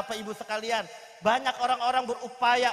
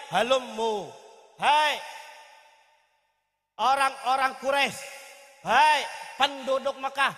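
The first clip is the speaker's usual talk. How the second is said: a raised, hollering call to a crowd; calling out loudly; 2 semitones higher, 3 dB louder than usual. Acted. Abu Jahal summons the people of Quraisy to come closer, calling out. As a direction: holler it out to gather everyone round. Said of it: "Teriak Abu Jahal".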